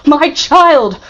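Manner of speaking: high, loud cry of a father's despair; anguished cry. A narrator's reading. Father crying out over his stolen child. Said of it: "cried Villefort".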